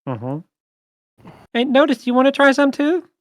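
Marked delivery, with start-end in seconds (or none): 1.5-3.1 NPC voice. Acted. GM voices NPC offering drink.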